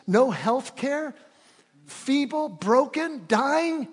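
loud, high, rising preacher's cry; preaching at full force. Acted. Pastor to congregation about Israel's wealth, full preaching voice. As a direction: drive it home to the congregation, slowing on had. Preaches slaves' suffering to freedom.

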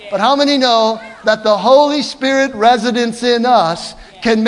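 loud preaching to the church; full-force preaching. Real, not acted. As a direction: drive it home to the congregation.

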